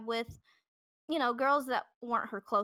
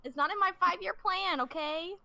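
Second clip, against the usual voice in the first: higher whiny vocal fry; 8 semitones higher than usual. Pretend. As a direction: whine it like a millennial. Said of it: "now I sound like a whiny millennial that has vocal fry".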